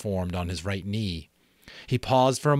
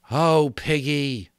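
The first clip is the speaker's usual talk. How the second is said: low and stricken; 6 semitones higher, 7 dB louder, slower than usual. Acted. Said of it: "low and stricken".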